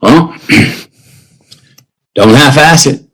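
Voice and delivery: a hint of a father, slow and measured; dad's gruff advice. Father giving son his blessing, slow and measured. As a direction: slowly hand down the verdict. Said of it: "Three words were".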